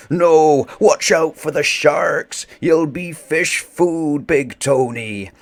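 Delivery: high, loud panicked cry to a diving shipmate; shouting after a friend who leapt into shark water; frantic warning shout. Acted. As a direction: yell it across the water in panic. Crew shouting warning at Tony.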